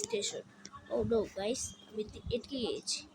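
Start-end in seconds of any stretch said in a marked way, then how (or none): 1.9-3.0 whispering. Real, not acted. Stuck, whispers to viewers.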